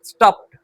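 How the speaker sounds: स्टॉप्ड ending in a t sound, stopt; teacher repeats स्टॉप्ड with the t. Shown as a demonstration. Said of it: "टा का sound आएगा".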